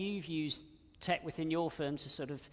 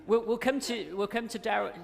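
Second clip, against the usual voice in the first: laughing; 6 semitones higher, 7 dB louder than usual. Real, not acted. Host laughing after overlap.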